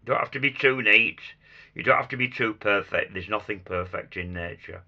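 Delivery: hoarse, croaky voice from a chest infection. Real, not acted. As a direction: talk through a croaky throat. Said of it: "I'm sorry about my croaky voice".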